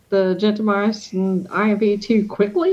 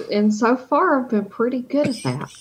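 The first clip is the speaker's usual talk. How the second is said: ordinary talk, nothing marked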